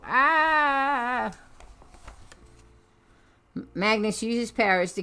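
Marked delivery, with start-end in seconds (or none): 0.0-1.3 sharp high yelp of pain; pained cry. Acted. Strucker yelling as Magnus crushes his claw, a sharp cry.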